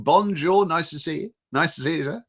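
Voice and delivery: ordinary delivery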